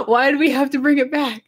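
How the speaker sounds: high, laughing complaint; laughing protest. Real, not acted. Speaker cracking up over the name debate, laughing. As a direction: protest through helpless laughter.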